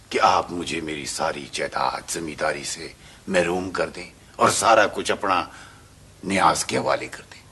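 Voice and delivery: loud, accusing outburst; angry. Acted. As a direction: hurl the accusation. Villain confronting over the will.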